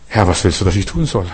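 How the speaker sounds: low, hushed question to God; humble prayer. Retold or imitated. New convert asks the Lord what to do, humble prayer.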